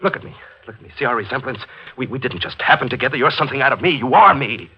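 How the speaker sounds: rising, pressing insistence; urgent pleading. Acted. Man urges the killer, growing frantic. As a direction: push harder and harder to convince him.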